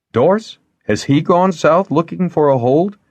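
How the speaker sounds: surprised. Acted. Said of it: "a chuckle of relief and wonder".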